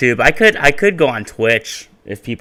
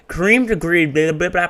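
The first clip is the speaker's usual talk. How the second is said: YouTuber voice; 7 semitones higher than usual. Shown as a demonstration. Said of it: "Let's get YouTuber voice going".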